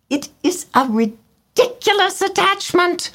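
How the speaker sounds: very high twittering bird voices; mock the match like gossiping birds; twittering swallows. A narrator's reading. Other swallows sneering at his romance, high twitter. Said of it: "twittered the other swallows".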